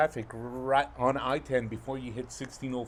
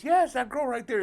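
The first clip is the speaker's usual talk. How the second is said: insistent wife; 12 semitones higher, 6 dB louder than usual. Retold or imitated. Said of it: "She goes".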